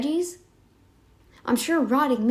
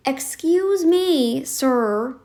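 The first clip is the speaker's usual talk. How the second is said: sarcastic; 2 semitones higher, 3 dB louder, much slower than usual. Real, not acted. Sarcastic retort to the doctor.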